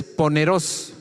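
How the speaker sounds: "poneros" stressed on its last syllable, po-ne-RÓS; stress on final O. Shown as a demonstration. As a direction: put the accent on the final O of "poneros". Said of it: "con acento en, en la O al final".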